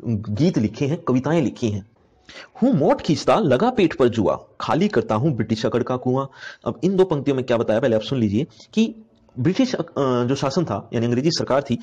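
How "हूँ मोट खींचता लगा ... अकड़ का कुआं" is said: measured, slightly raised reciting voice; lightly declaimed Hindi poem; poem recitation. Acted. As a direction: recite the verse for the class. Teacher recites poem lines.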